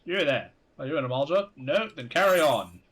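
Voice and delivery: guard questioning a traveller, brusque. Acted. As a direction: interrogate a passerby. Voices guard NPC.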